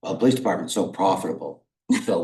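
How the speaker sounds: dry sarcastic quip. Real, not acted. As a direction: toss it out as a mock-sincere joke. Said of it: "Sorry, sarcasm".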